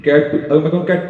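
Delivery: "कैट" said with a full open vowel, not "कट"; full pronunciation. Shown as a demonstration. Teacher contrasting cat and cut, careful full vowel. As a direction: pronounce "कैट" fully and clearly. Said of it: "मैं पूरी तरह से pronounce करूँगा कैट".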